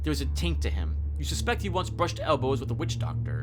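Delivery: measured second-person storytelling; story narration. A narrator's reading. Describing a ghost hunter's appearance, story narration. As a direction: set the scene like a game master. Reads the game's story text.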